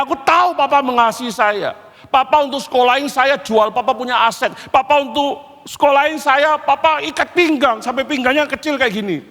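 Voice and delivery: high, insistent outpouring; impassioned plea. Acted. Crying son telling Papa of his sacrifices, impassioned plea. Tearful son confronting father, acted.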